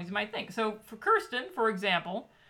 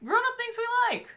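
segment announcer; 14 semitones higher, 4 dB louder than usual. Acted.

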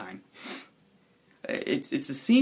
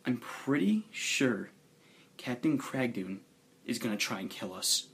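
grave warning; 5 dB quieter than usual. Acted. Grave warning in acted quote.

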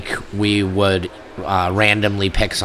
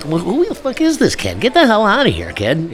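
hammed-up high angry yell; mock yell; 9 semitones higher than usual. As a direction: shout the kid away in disbelief. Retelling yelling at kid.

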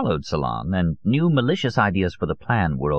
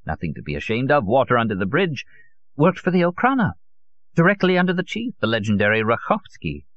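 put-on higher, animated old man's voice; proud old conspiracist; 7 semitones higher than usual. Old Solon tells his visitor of his father's work, proud and animated. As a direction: confide it with relish, in character.

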